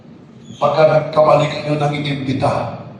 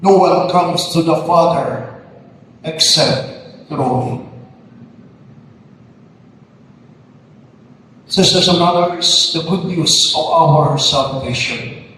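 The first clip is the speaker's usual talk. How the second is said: gospel proclamation; 2 semitones higher, slower than usual. Acted. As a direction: proclaim it to the whole church. Priest proclaims the gospel at mass.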